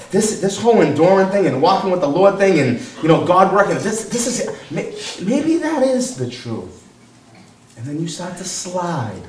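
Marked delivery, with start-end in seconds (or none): 0.1-6.9 halting, mock-doubtful reasoning; wavering believer. Believers talking themselves out of enduring, wavering. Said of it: "And we say".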